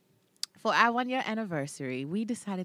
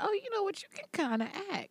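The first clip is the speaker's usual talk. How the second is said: imagined viewer's reaction; 14 semitones higher, 4 dB quieter, faster than usual. Retold or imitated. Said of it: "you could be like".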